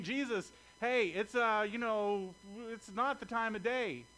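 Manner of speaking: a hint of Peter fumbling for an excuse; flustered Peter. Peter stammering excuses to Jesus, mildly flustered. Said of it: "Peter's saying".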